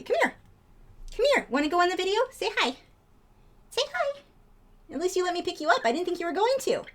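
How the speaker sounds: high, sing-song coaxing of a pet. Real, not acted. Talking to her pet bird in high baby talk. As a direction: coo at the bird to come over.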